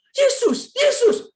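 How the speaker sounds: very high, loud mock shriek; retold scream. Preacher retelling mother on roller coaster, mock screaming. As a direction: cry out like a panicking mother on a ride. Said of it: "mama saya mulai teriak".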